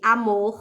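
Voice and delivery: "amor" with the last syllable drawn out; stress on final syllable. Shown as a demonstration. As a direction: lean on the "mor" of "amor". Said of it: "sílaba pronunciada com mais força". ("amor" com a última sílaba forte e alongada)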